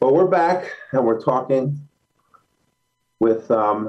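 winded, short of breath. A radio host returns from a break after a quick run, out of breath. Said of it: "I'm a little out of breath".

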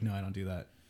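deadpan, very flat, level, monotone brush-off tone. Retelling a piano teacher's refusal to improvise: imitating a flat reply. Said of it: "very flatly".

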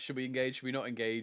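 ordinary talk

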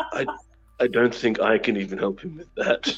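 whispering. Whispering to another character in the scene: whisper. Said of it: "slide up to Yervith and I whisper to him".

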